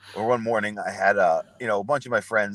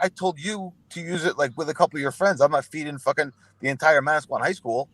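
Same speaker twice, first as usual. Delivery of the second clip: high, exasperated scolding; mock exasperated brother; 6 semitones higher than usual. Older brother scolding kid over card charges, high exasperation. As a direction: voice the big brother losing it.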